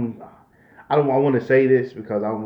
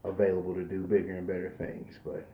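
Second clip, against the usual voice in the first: stuffy nose from allergies; nasal voice; 5 dB quieter than usual. Real, not acted. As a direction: talk through a blocked nose. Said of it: "Excuse me if I sound a little nasal".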